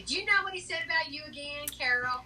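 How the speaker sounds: put-on southern accent for quoted interns. Interns gossiping to Carol about Joe, imitated southern accent. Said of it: "I'm giving you a southern accent".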